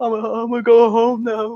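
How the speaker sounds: put-on tearful child voice, high, slow, crying. Retelling how a bloodied kid walked off: imitating a crying kid. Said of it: "he's like, crying, basically".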